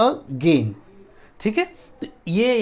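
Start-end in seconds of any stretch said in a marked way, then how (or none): 0.1-0.7 "again" in two parts, a ... gain; syllable breakdown. Shown as a demonstration. Teacher showing students where the word breaks, syllables apart. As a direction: say "again" with a gap after a. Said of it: "break होगा".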